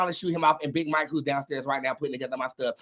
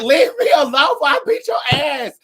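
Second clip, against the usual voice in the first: higher, louder threatening yell; retold yell; 11 semitones higher, 8 dB louder than usual. Telling off the man who won't stop talking, loud and high. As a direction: bark it at him like you've had enough.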